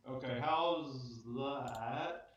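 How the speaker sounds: distant, echoing voice from the next room; down the hall. Real, not acted. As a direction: sound far off down a hallway. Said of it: "Sounds like you're down the hall".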